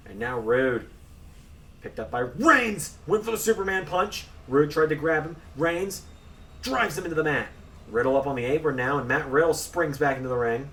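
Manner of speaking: excited ringside play-by-play; wrestling commentator. Acted. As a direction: call the action live. Live play-by-play of the match.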